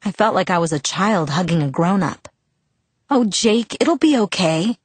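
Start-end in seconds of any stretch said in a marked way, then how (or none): 3.1-4.8 higher-pitched, mildly earnest reassurance; reassuring promise. A narrator's reading. Girl hugging a friend about to cry, reassuring. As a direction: lift the voice to comfort him. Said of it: "I promised".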